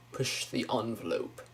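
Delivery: soft "envelope" as ON-vuh-lope; professional pronunciation. Shown as a demonstration. Demonstrating the professional word in a phrase, ON-velope. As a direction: quietly say "envelope" with an ON opening. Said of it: "I'll say envelope".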